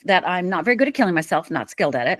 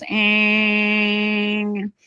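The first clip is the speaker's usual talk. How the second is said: car horn drone. Retold or imitated. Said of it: "all I heard was".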